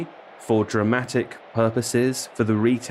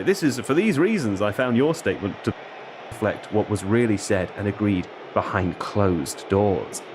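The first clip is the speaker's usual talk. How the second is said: lightly voiced footballer's grave statement; Alexander Isak. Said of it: "I transformed into a character".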